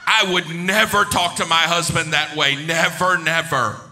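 loud, emphatic mock certainty; overconfident declarations. Preacher voicing falsely confident people, loud and emphatic. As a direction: proclaim each denial as if beyond question.

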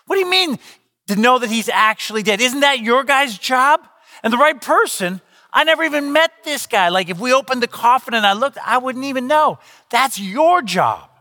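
high, incredulous inner panic; mock alarm at the absurd request; freaking out inside. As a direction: voice shooting up in disbelief. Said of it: "I was freaking out".

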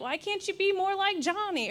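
lightly voiced nagging parent; a hint of a scolding mum comparing siblings. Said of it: "and they're like".

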